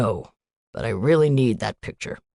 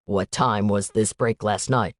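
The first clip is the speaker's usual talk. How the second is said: put-on light Indian accent, statements lifting at the ends; a hint of an Indian student, worried uptalk; 4 semitones lower than usual. Student telling the agent about Noelle, light Indian accent. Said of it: "a young man with an Indian accent".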